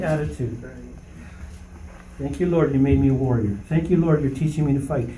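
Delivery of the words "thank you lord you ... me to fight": grateful prayer. Retold or imitated. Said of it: "that's not the attitude to have".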